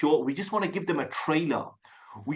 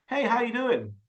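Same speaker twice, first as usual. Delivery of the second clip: higher, easy American-style "Hey, how you doing?"; casual American greeting; 7 semitones higher than usual. Shown as a demonstration. Coach models movie greetings for a learner, casual American accent. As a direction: copy a movie American saying hello. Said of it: "how they pronounce them. Just copy them".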